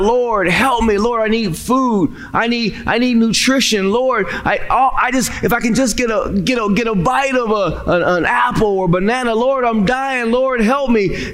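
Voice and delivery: begging the Lord for food, a touch desperate; crying out to God. Acted. Starving man on his knees cries to God, pleading. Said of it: "he's crying out".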